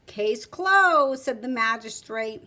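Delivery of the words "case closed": firm ruling. Acted. Magistrate declares verdict.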